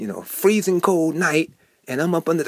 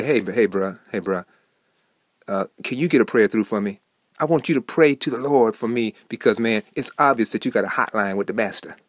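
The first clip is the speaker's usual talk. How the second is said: lower, easygoing street-talk voice asking a favour; casual buddy; 4 semitones lower than usual. Retold or imitated. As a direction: lean in like a pal, "hey bruh". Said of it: "has anyone ever come up to you and say".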